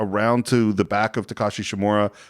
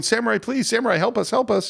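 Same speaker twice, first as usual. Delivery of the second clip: mock pleading peasants; 11 semitones higher than usual. Panicked peasants begging samurai.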